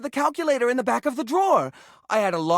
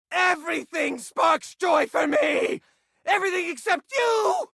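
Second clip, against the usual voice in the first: indignant shout; 6 semitones higher than usual. Acted. Hoarder yelling at the cleaner, indignant shout. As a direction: throw it right at them. Yells at the tidier.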